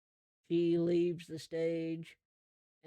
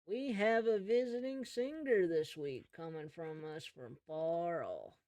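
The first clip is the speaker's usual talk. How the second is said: lightly put-on emcee, raised pitch; stage announcer; 3 semitones higher than usual. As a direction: draw out the introduction for the crowd. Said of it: "talking into the blowhorn".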